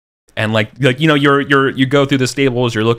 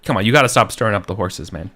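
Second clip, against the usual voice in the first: scolding groom; 2 semitones higher, faster than usual. Retold or imitated. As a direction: tell the Irishman off, pitched up. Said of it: "you know".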